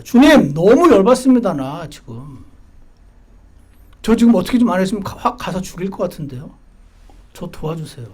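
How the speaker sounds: loud, urgent plea to the Lord; heated prayer. Shown as a demonstration. Pastor demonstrating a prayer to God: heated plea. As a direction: pour out your anger to God. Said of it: "하는 겁니다".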